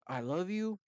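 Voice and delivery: tender words, said firmly; stern but loving. Acted. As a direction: lovingly put your foot down. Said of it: "you gotta go stern".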